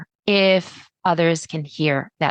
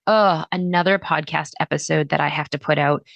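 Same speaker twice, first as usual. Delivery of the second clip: bored groan; 3 semitones lower than usual. Pretend.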